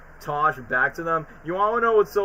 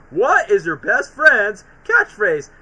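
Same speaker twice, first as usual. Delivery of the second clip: louder, very slow cartoon line; acted quote; 4 semitones higher, 6 dB louder, much slower than usual. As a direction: ham up the cartoon question. Acting out episode dialogue.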